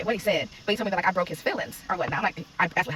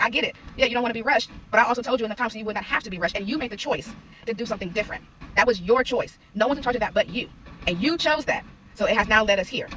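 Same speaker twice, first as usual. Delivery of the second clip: emphatic retold lecture, raised pitch; firm parent; 3 semitones higher, 3 dB louder than usual. Mom telling her child it was their choice, firm and emphatic. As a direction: drive the point home like a parent.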